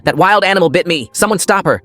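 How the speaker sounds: high-pitched alarmed shout; urgent, outraged call. A narrator's reading. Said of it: "Dad shouted".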